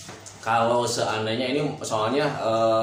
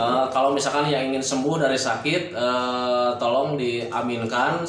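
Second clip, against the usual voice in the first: talking around a cigarette; cigarette in mouth. Real, not acted. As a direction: speak with a cigarette between the lips. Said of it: "saya sambil ngerokok".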